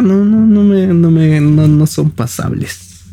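pushing back hard, voice rising; emphatic outburst. Real, not acted. To his co-host about Peruvians faking Mexican speech, a real emphatic outburst. Insisting he dislikes fake Mexican talk.

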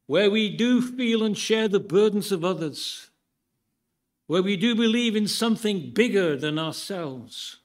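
lightly voiced Churchillian orator, deliberate phrases with pauses; a hint of Churchill's speech-making, lifting in pitch as it builds; Churchillian impression. Preacher quoting a politician's vision for the congregation to guess, lightly Churchillian. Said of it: "I tried to say it in my best Churchillian voice".

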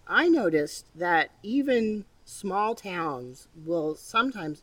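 talking around a lozenge; words round a lozenge in the mouth; mouth full. Real, not acted. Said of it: "sorry, I have a lozenge in my mouth".

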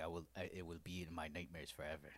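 low, soft, composed understatement; calm butler. Retold or imitated. Butler reacting to a frostbitten foot, calm imitation. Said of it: "he was very calm".

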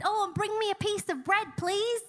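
high, casual call-out imitation; calling after her. Elijah calls after the widow fetching water, high mock afterthought. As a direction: lift it high like an afterthought called out. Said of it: "he called out and said".

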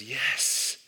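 hammed-up deluded friend, slow, rising high on the end; mock triumphant friend. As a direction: play the friend proud of his wrong conclusion.

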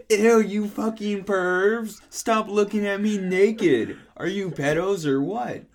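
high, slow, drawn-out disgusted cry; mild scream. Acted. Ebony catches peepers at her window, mock scream. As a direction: screech it slowly at the pervs, half-earnest. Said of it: "I screamed".

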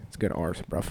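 casual mock British dog; British accent. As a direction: approve like a British bruv. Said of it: "he'd have a British accent".

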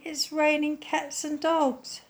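high, slow, sadly resigned. A narrator's reading. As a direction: let the words droop with disappointment. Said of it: "she said sadly".

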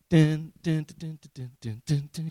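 quiet "dun, dun" walking noises; casual strolling hum. Acted. Preacher mimics Jesus waddling on the water, nonchalant humming.

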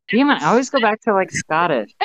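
exasperated at self. Real, not acted. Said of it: "that's Scottish".

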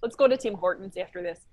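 lightly put-on Canadian accent; playful Chicago-turned-Canadian accent; mock Canadian accent. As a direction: slip into a folksy Canadian accent. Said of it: "That's actually more Canada".

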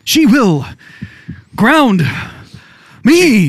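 halting, dramatic delivery with big pauses; William Shatner. Acted. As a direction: ham actor declaiming word by word. Playful William Shatner impression.

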